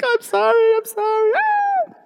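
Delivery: squeaky, very high, loud mock apology ending in a yelp; hammed-up panicked sorry, shooting way up; frantic apology. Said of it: "I'm like".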